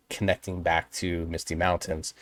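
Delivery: usual speaking voice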